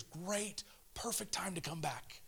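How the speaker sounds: whispered, intimate invitation. Acted. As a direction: lean in and breathe it. Whispered aside to the listener.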